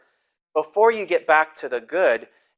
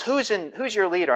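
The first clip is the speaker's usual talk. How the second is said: mock angry demand; 7 semitones higher than usual. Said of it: "he was all angry and upset".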